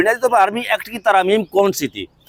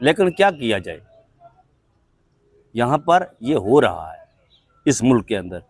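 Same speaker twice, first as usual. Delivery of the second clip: resigned lament; 7 semitones lower, 4 dB quieter than usual. Real, not acted. Anchor laments the ruling to viewers, resigned and subdued. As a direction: lower and softer, a weary sigh in the voice.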